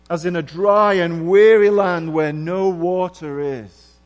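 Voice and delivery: crying out to God. Acted. Preacher reads David's psalm as a loud anguished cry. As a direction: call out to God from the dry land. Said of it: "cried out".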